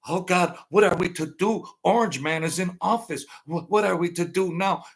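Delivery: hammed-up fretting; mock crying. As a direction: imitate a helpless crybaby. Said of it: "they're all crying like little bitches".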